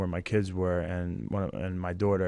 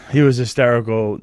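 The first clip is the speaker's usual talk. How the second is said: still crying; 2 semitones higher, 10 dB louder than usual. Real, not acted. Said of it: "and I still cried".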